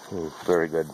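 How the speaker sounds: talking with mouth full; chewing through the words; messy loud eating. Real, not acted. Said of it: "Pardon me while I talk with my mouth full".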